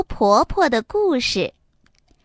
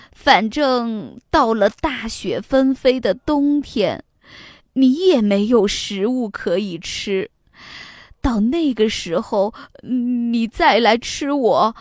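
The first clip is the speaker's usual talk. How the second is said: put-on old woman pleading. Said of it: "哆哆嗦嗦地说".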